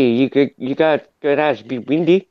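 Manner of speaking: attempted South African accent. Shown as a demonstration. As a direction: imitate a South African in passing. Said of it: "the South Africans really talk like".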